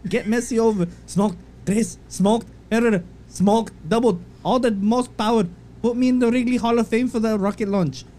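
bad mock-Irish post reading; amateur Irish accent, slipping as it goes; attempted Irish accent. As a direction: read it as a fake Irish McGregor. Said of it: "Read it in his accent".

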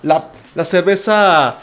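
beer snob. Retold or imitated. Mock craft-beer snob scolding.

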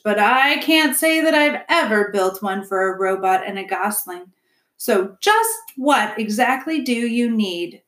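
lightly voiced beaver, slowing for the question; a hint of a puzzled builder; sceptical beaver builder. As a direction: ask pointedly as a doubtful tradesman. Mister Beaver questions robot.

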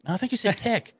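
put-on high New Zealand accent correction. Coworker correcting the boss.

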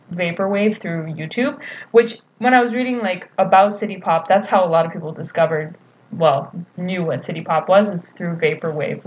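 stuffy nose from allergies; congested. Real, not acted. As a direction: speak through a blocked nose. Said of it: "if you hear me sounding all congested".

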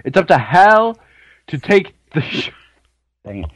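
light announcer voice, running out of breath. Acted. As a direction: hype announcer reading a long summary. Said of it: "you're running out of breath, man, on that announcer voice".

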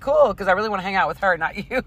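high and quick, teasing. Retold or imitated. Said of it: "I'm like".

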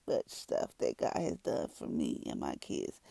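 slow, halting, emotional delivery; choked up. Real, not acted. Mother testifying to what God has done, choked up. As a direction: struggle to get it out, voice dropping away. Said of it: "hard for me to speak through that".

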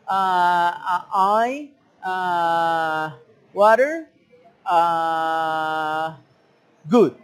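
hesitant broken English with ah's; halting beginner English. Shown as a demonstration. Learner fumbling basic English words, halting. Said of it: "a comunicarte mal".

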